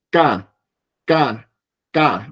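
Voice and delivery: K said as a short, tight k with no breath after it; unaspirated k. Shown as a demonstration. Teacher shows the Korean unaspirated consonant to the class. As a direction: clip K off with no puff of air. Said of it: "No tiene aire".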